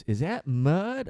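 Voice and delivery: slow dopey question rising at the end; dumb passenger again. Retold or imitated. Retelling the passenger's question a second time, slow and dopey. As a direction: drag the words out, puzzled. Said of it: "he goes".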